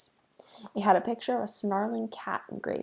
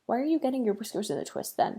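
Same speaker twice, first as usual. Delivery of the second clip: scolding; 3 semitones higher, faster than usual. Acted. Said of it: "she scolded".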